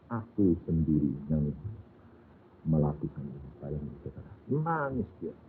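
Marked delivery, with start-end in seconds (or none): 0.1-3.5 low, soft and calm; gentle voice of Jesus. Acted. Jesus answers the frightened wife, low and soft. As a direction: answer her tenderly and quietly.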